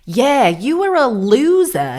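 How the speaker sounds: loud, high, drawn-out Australian impression; mock Australian accent. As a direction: imitate a brash Australian socialite, slowly. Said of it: "I don't know why she sounds Australian".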